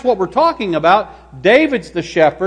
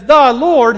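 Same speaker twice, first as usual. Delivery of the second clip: THE punched high as "thee"; stress on THE; 5 semitones higher, 4 dB louder than usual. Shown as a demonstration. Preacher explaining what David means, stress on THE. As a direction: hit "The" in "The Lord", raised. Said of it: "Let's emphasize the".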